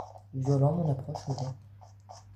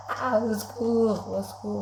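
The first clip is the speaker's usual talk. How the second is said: panicked cry for help; 7 semitones higher than usual. Pretend. Gamer fleeing a monster with his friends watching, panicked cry for help. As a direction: call for help in a playful panic.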